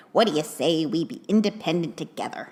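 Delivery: a light nerdy elf voice; shy, earnest little misfit; Herbie the Misfit Elf voice. Retold or imitated. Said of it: "That's what it sounds like".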